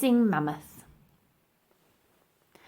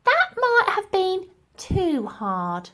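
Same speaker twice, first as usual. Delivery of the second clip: remark; 10 semitones higher, slower than usual. A narrator's reading. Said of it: "remarked Dotty".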